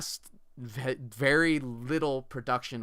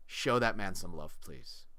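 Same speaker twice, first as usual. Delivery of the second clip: sincere; 5 semitones lower, 3 dB quieter than usual. Real, not acted. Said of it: "That's a sincere request from me".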